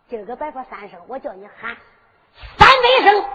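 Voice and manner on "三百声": high, loud jump on the number; scornful exaggeration. Su Long scoffs at Liu Xiu's plea, loud scorn. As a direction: throw the number out at full voice. Captor mocks the three shouts.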